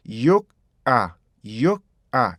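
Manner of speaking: "You are" with a k-like stop closing "you"; K stop linking. Shown as a demonstration. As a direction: say "yook", hold, then release "are". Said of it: "어떻게 육, 욱이 되겠죠".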